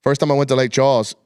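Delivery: put-on a light Louisiana Cajun accent, retaken on request; Cajun accent again. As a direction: redo the mild Cajun accent. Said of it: "Do that again".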